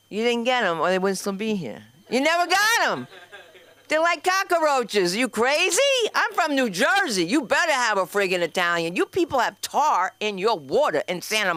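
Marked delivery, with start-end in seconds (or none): 2.1-9.4 heated rant. Acted. Jersey rant at crowd.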